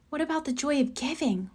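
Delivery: hushed, soft aside to a partner; whispered. A narrator's reading. Mama murmuring worry to Papa, hushed. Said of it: "whispered Mama to Papa".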